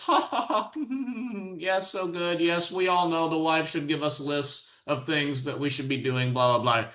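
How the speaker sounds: mock audience laughter. Mocking the laughing church audience.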